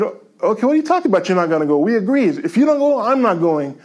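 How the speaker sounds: incredulous protest. Retold or imitated. Arguing with wife about the trip.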